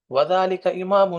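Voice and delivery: slow teacher demo; slow Arabic reading. Shown as a demonstration. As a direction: model وذالک امام slowly for the class. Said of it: "تلفظ اس کا ٹھیک کر لیں".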